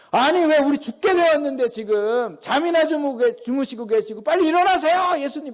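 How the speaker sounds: high-pitched, exasperated mock tirade; angry outburst. Panicked disciples scolding sleeping Jesus to get up, acted angry outburst. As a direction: snap at the sleeper, acting out real annoyance. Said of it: "확 승질 내면서 얘기하는 거예요".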